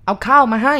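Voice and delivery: put-on loud slow call of an old captor; old man calling. A narrator's reading. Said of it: "ชายแก่คนนั้นพูด".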